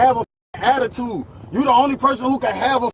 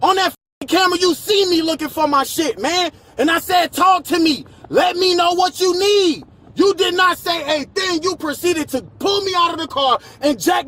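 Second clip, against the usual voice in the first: angry yelling; 3 semitones higher than usual. Real, not acted. Yelling at officers after arrest.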